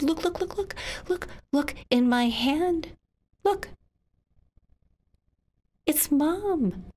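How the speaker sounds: put-on a child showing her father the bee; excited child. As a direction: burst out with wonder.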